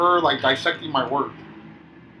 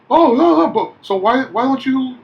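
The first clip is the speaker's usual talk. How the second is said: higher, louder mock outrage; mimicking angry guest; 9 semitones higher, 7 dB louder than usual. Night manager imitates a complaining guest interrupting him, mock angry. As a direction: play the lady cutting him off in a huffy imitation.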